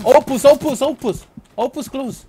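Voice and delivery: shouted callout to teammate; calling out. Real, not acted. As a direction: yell the name across the field.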